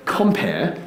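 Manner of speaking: "compare" stressed on its first syllable, COM-pare. Shown as a demonstration. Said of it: "if you stressed the first one".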